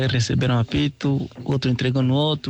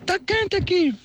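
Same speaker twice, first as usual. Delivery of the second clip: very high panicked cries; screaming for help. Acted. Partridge trapped in the burning grass, very high panicked screams. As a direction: shriek as the fire closes in. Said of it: "E a Perdiz lá gritando".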